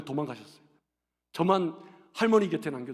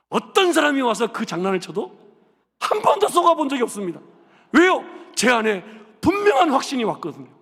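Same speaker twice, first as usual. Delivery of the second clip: building to a loud shout; preaching loud; 3 semitones higher, 7 dB louder than usual. Acted. Preacher tells church he is never fooled, building to a shout. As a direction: proclaim your certainty to the crowd.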